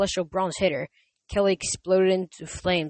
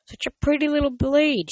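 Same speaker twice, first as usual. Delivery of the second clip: purring; 8 semitones higher than usual. Acted. Monster purring seductively.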